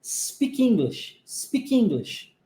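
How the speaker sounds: slow linking demo; linked words demo. Shown as a demonstration. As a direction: speak English run together, slow. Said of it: "junção do speak com English".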